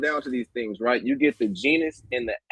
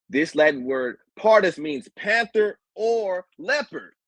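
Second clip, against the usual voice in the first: reading slowly; 5 semitones higher than usual. Shown as a demonstration. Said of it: "I'm gonna read this again slowly".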